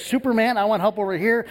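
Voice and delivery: a hint of a child demanding the helper's attention; kid calling out. Kid across the classroom wants the helper, calling out.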